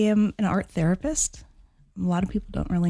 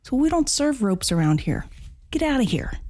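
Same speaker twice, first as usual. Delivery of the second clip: bartender voice; 7 semitones higher than usual. Acted. Joke: bartender throws rope out.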